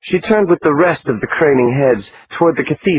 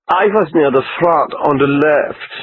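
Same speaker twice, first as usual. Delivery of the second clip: put-on light Austrian-American accent, a bit higher; a hint of Austrian lilt on American English; 3 semitones higher than usual. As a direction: supermodel telling the reporter in Austrian-American accent. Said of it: "in her best Austrian-American accent".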